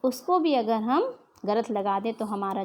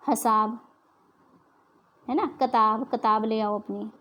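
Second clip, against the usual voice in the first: Punjabi pronunciation. Retold or imitated. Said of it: "Punjabi भाषा में".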